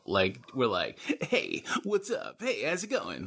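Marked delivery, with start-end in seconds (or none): 1.2-3.3 Hollywood cool guy. Retold or imitated. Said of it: "Like Hollywood".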